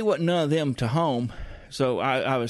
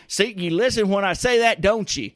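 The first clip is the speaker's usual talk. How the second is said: pointed scolding; 6 semitones higher, 5 dB louder than usual. Real, not acted. Scolding someone off-mic.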